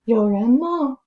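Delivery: calling out. Acted. Calling out in empty building.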